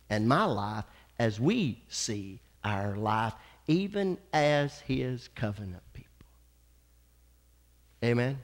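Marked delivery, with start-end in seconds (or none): 0.1-6.1 whispered, much softer; hushed aside. Real, not acted. Pastor drawing the congregation close, whispered. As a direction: drop to a whisper to draw them in.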